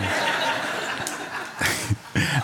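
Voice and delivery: low, voiceless chuckle; quiet wheezy laugh at one's own joke; soft laughter with little voice. Real, not acted. Jokes about pointing out others' failures.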